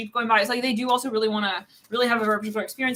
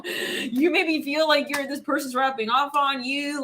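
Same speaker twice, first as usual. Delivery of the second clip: slow, higher mock Texan accent; 3 semitones higher, slower than usual. Reader stuck in the accent addressing listener, Texan accent. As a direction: keep drawling in playful Texan. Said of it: "can't even get out of the accent now".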